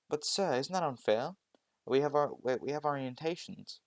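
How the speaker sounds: put-on protesting girl. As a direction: plead your case to the teacher.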